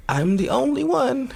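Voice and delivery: high, singled-out declaration; hammed-up only-child entitlement; mock self-centred. Voicing an attention-demanding only child.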